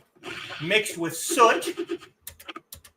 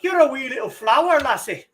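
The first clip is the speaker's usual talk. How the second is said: hammed-up Scottish brogue, pitched higher; mock Scottish accent; 7 semitones higher than usual. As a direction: play a terrible stage Scottish accent for laughs. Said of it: "terrible, terrible accent".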